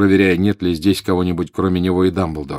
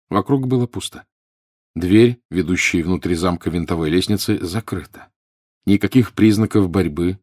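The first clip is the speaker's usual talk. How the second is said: ordinary delivery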